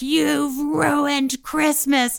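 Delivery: imitated mom's long mild wail; freaking-out mother. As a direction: stretch the blame out slowly, short of a scream. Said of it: "my mom is freaking out and screaming".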